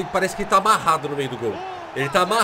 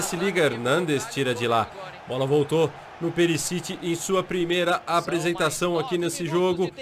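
normal talking voice

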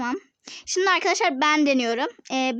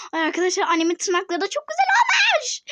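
laughing; 6 semitones higher than usual. Real, not acted. Laughing while praising mom's nails.

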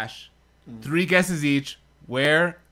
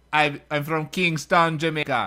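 Jamaican accent. Shown as a demonstration. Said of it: "Say this, say this".

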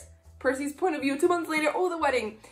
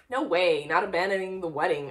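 stubbornly; 2 semitones lower than usual. Acted. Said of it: "I said stubbornly".

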